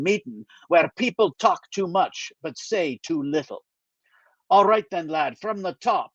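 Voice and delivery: put-on lightly Scottish older friend, dry; a mild Scottish brogue, wry; gentle Scottish lilt, teasing; Scottish accent. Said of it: "he still has a Scottish accent".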